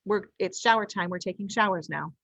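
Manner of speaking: steady, even, no-nonsense calm; calm assertive voice. Shown as a demonstration. Parent telling kids it is shower time, calm and firm. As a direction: state the plan calmly and firmly. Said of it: "So it's a calm voice".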